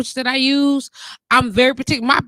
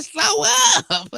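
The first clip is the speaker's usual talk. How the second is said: raised, drawn-out; 10 semitones higher than usual. Shown as a demonstration. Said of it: "Just slow up a minute".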